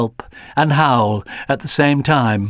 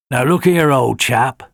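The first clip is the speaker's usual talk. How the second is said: firm, louder telling-off; a hint of a stern old fox; 4 dB louder than usual. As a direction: take the scared hound in hand sternly. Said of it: "said Fix-It sternly".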